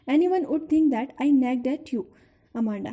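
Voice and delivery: slow, drawn-out reading of a scolding; poem recitation. Acted. Teacher reciting the mother's scolding, slow recitation. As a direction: read each scolding line slowly to the class.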